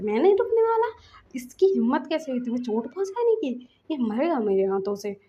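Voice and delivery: retold furious refusal, loud at the start; angry refusal. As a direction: refuse in a rage. Lasan furious at bully.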